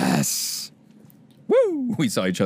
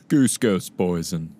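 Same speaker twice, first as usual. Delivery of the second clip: normal talking voice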